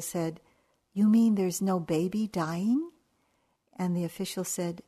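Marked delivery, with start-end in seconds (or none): 0.9-2.9 louder, rising in disbelief; can it really be true; astonished question. Retold or imitated. Golfer asking the official in hopeful disbelief, rising.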